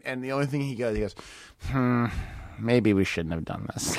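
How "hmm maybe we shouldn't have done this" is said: retold doubt. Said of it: "it wasn't going great".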